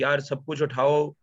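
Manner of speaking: rattled off, fast and offhand; careless quick quote. Retold or imitated. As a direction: toss it off quickly like it's nothing. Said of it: "He just says कि".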